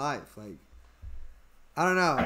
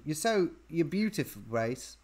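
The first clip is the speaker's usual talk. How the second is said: attempted Liverpool accent, trailing off softly; 4 semitones lower, 6 dB quieter than usual. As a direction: try a light Scouse accent. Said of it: "she's a Liverpoolian".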